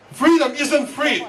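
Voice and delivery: slow, emphatic declaration; rally slogan. Real, not acted. Immigrant author gives Tea Party crowd his message, rally slogan. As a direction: proclaim it slowly to the crowd.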